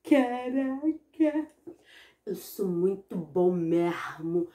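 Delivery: drawn-out proud boast; smug self-praise. Acted. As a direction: savor it like a cocky kid. Boy proud after pooping. (menino orgulhoso, fala arrastada)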